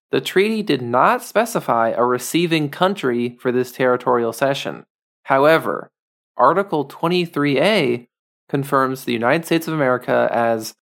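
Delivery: put-on a light, tasteful Taiwanese accent reading legal text; lightly voiced Taiwanese accent, kept respectful. Reading the group's website aloud, in a light Taiwanese accent. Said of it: "I'm gonna do a Taiwanese accent".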